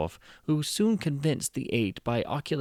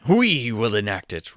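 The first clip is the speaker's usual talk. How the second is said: remarked; 8 dB louder than usual. Acted. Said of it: "remarked the king".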